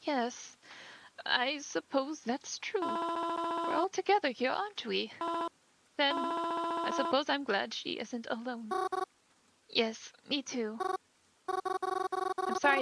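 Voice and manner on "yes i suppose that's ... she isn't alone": higher, gentle voice of a bereaved mother; a mother startled at her daughter's funeral; grieving mother. Acted. Grieving mother greets a stranger at the funeral, gently.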